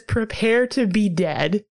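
slow, mock-menacing "Prepare to be dead." with "to" lifted. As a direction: drag out "Prepare to be dead." like a corny movie villain. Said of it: "He says".

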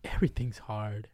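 unvoiced whispered sigh of words; whispered resignation. Real, not acted. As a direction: breathe it out, resigned. Murmured resignation.

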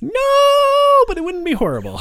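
high, squeaky laughing protest. Real, not acted. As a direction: insist through laughter. Laughing insistence.

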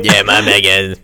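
rapper impression; lightly voiced rapper; a rapper. Shown as a demonstration. Apologizing to friends after a botched accent, mock rapper voice. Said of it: "like, a rapper".

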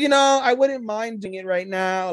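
high eager maid; high eager maid, all excited. Retold or imitated. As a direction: say it high and keen. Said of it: "Tarte's like".

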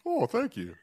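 heavy reverb on the voice; vintage echo chamber. Real, not acted. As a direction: voice soaked in echo. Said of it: "Not too much reverb?".

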